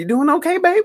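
put-on very high, squeaky little old lady voice. Retelling an elderly museum worker's questions, imitating a little old lady. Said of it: "Little old lady is asking me".

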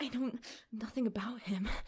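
short, flat, mumbled delivery. Repeating how the other speaker just said a line, as a Kristen Stewart impression. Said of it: "Kristen Stewart, the way you're saying it".

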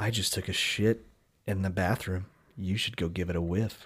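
fake seductive voice, very low, soft and hushed. Reading out odd things to say, speaker tries one in a mock sexy voice. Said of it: "odd things to say using a sexy voice".

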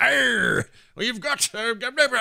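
pirate voice pitched very high. Showing how a fantasy dwarf should talk: pirate voice. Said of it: "I don't know why he's a pirate".

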